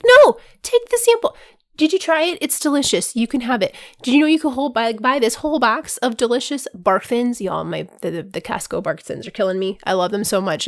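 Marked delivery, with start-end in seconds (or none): 0.0-7.4 pushy sample lady. Pretend. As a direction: push the sample hard. Costco sample pusher voiced.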